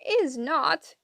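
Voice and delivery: high, mildly yelled contradiction; childish yelled retort. A narrator's reading. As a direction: snap back like a squabbling sister. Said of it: "yelled the one called Anger".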